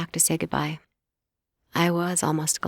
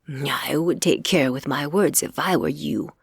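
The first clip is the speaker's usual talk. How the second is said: warning; 2 semitones lower, 3 dB louder than usual. Acted. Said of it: "he warned".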